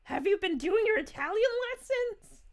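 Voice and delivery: hammed-up nagging language coach; imitating nagging Mario. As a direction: play Mario checking up on homework. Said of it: "he's like".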